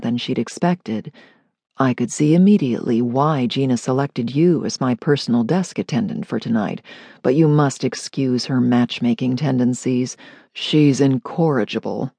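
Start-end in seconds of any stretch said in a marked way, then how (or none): 1.8-12.1 lightly voiced, lower, composed man; a hint of a commanding guest, assured; deep-voiced guest. Bram speaks to the clerk.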